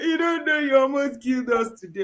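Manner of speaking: high-pitched mock scolding; Nollywood wife. Nollywood wife hitting her husband, high mock tirade. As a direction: play an overdramatic wife berating her husband. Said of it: "if you watch Nollywood, she will come and be hitting her husband".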